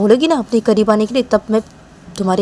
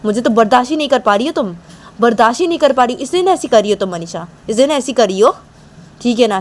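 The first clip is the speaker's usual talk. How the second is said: higher, mildly raised and indignant; heated argument voice; 4 semitones higher, 3 dB louder than usual. Acted. Manisha snapping back at Nisha, mildly raised voice. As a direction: push back at her, a bit raised.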